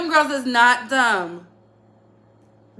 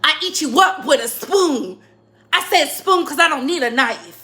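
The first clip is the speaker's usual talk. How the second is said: mock battle rapper. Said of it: "my battle raps".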